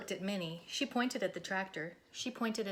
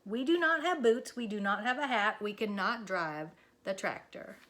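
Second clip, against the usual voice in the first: reasoning Minnie; 4 dB louder than usual. Acted. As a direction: list the problems firmly. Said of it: "said Minnie".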